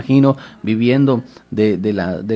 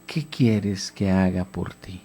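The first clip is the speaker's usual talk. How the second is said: slow, lower, soft voice of Jesus; gentle question; 6 semitones lower, 5 dB quieter, slower than usual. Acted. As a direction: ask him tenderly and slowly. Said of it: "Pero Jesús le pregunta". (Jesús pregunta al ciego con calma)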